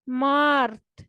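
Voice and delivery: मार्थ with a rolled r; Russian mart. Shown as a demonstration. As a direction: roll the r in मार्थ. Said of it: "Russian language में कहते हैं मार्थ". (मार्थ में र घुमाकर बोलें)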